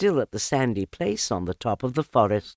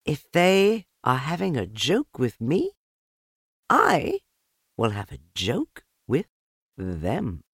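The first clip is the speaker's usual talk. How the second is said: higher motherly Kanga voice; a lightly voiced kangaroo mother; 6 semitones higher, 3 dB louder than usual. A narrator's reading. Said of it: "So she said to herself".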